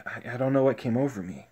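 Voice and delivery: soft, hurried retold apology; subdued confession. Tien explaining himself to Chaozu, subdued confession. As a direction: hush it, owning up quickly.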